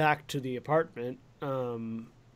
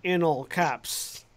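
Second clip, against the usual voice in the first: said slowly, drawn out; slow and deliberate; much slower than usual. Shown as a demonstration. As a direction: spell it out slowly like a stage direction. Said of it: "you could say".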